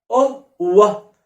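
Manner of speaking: أوه said as a flat oh; wrong pronunciation. Shown as a demonstration. Teacher mocking the wrong oh for ow. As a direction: avoid saying أوه as oh. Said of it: "أسيبك تروح تقول أوه".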